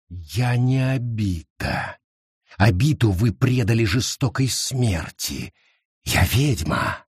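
scorn his tears; cold witch. Acted. Witch speaks coldly.

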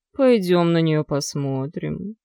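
slow, whiny pleading; whining dragon. Acted. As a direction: drag it out like a whining beast. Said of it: "Снова заныл дракон".

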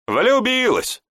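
very high, cackling mockery; mock her with a cackle; guffawing jibe. A narrator's reading. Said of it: "гоготнул Гант". (насмешливо, с гоготом)

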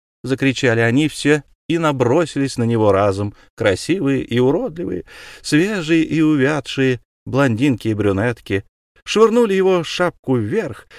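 plain reading voice

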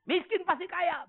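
high, slow, loud mock healing-preacher; mocking a faith healer. Pastor mocking prosperity preachers, slow, high mock sermon. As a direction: ham up the empty promise. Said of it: "jangan harap dengar khotbah di tempat ini".

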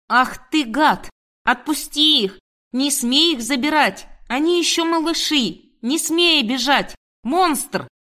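high, indignant outcry; angry shouting. A narrator's reading. Woman shouting at the man taking her puppies, high and angry.

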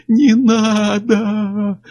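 high, very slow howl of terror; drawn-out wail. A narrator's reading. Chuck on his knees wails to Miller not to shoot, drawn out. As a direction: wail it long and desperate. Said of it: "протяжно провыл он".

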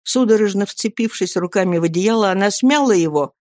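ordinary delivery, nothing marked

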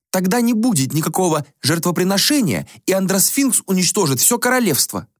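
put-on high, airy voice of a vain young prince; a high, languid young prince; prince Axius voice. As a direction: play the bored, spoiled prince. Prince character voice.

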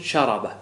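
شرب said sharaba, with an a after the r; common mispronunciation. Shown as a demonstration. Teacher quoting students' common error, شرب mispronounced as sharaba. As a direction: say شرب wrongly as sharaba, all a vowels. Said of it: "وهذا من الأخطاء الشائعة".

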